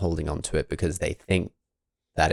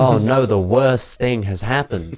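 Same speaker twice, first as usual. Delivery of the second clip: mock panic; 6 semitones higher, 7 dB louder than usual. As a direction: overplay the horrified onlookers. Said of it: "And everyone goes".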